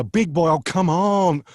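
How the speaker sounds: bouncy mock Gordon Ramsay, egging on; lightly voiced Gordon Ramsay. Impressionist showing Gordon Ramsay's energy, lightly voiced restless chef. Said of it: "Gordon is always on the move".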